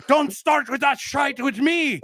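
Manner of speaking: high mock Irish accent, slow; Irish bloke. Irish fan warning the speaker off, in a slow high mock Irish accent. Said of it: "I can only do a high pitched one".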